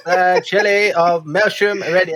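lightly voiced royal introduction; a hint of mock pomp; royal herald. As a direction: announce a title at court. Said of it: "old royal intros where you just".

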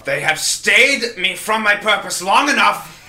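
high, loud, slow menace; dramatic villain. Acted. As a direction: declare it like a wrathful knight. Dramatic in-character threat.

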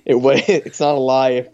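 quoting through laughter; laughing quote. Retold or imitated. Quoting a sitcom line to cohost, laughing. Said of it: "Malcolm in the Middle quote".

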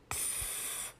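soft, voiceless cat hiss; breath-only "pff"; cat's spitting hiss. A narrator's reading. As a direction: spit like an angry cat. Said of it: "prskala přitom a syčela".

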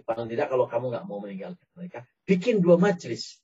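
sly persuasive tempter, lightly voiced; voicing Uyainah tempting. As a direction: coax like a smooth tempter. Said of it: "Kata Uyainah". (suara penggoda yang licik)

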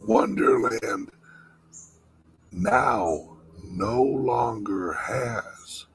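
whispering. Real, not acted. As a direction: breathe it like a dark secret. Dramatic conspiratorial reveal.

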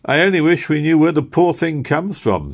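a kind lady wondering aloud; pleasant voice. A narrator's reading. The strange lady talks in the next room, pleasant voice. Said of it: "a pleasant voice speaking".

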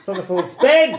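high and loud, laughing; laughing shout. Retold or imitated. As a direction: call it out through laughter. Washing machine mock shout.

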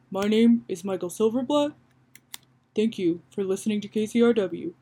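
lightly voiced host, assured and continuous; Michael Silverblatt. Host signing off to radio listeners, confident light impression. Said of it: "he's more confident".

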